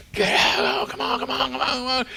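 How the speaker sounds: loud, high barking orders; yelling drill sergeant. Retold or imitated. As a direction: shout them off the bus. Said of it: "these people started yelling at us and screaming at us".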